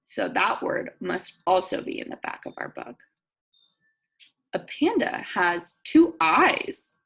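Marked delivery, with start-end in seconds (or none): 4.5-7.0 slow, clear read-aloud; reading to children. Acted. Teacher reading a picture book to her class. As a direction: read each word out for young listeners.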